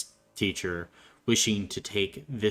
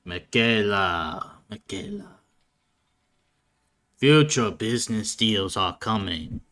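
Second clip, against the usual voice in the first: stern speech building to loud insistence; rally the family with weighty, emphatic phrases; gruff father; 5 dB louder than usual. Acted. Father readies child for family business, gruff and exhorting. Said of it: "you would hear a gruff voice go".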